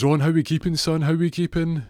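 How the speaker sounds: high, loud, matey hail; hearty greeting. Retold or imitated. Jackie hails Ron on the phone, hearty greeting. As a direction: greet an old pal with lots of gusto.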